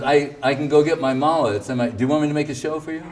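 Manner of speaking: fast, playful and offhand; quick teasing offer. Retold or imitated. Guru offering to fetch his mala, fast and teasing. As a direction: tease him, words tumbling out. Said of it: "he goes".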